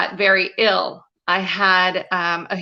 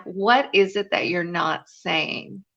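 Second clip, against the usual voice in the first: slow, soft, searching question; gentle probing question; 4 dB quieter, slower than usual. Retold or imitated. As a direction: ask it slowly and gently. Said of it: "And he said".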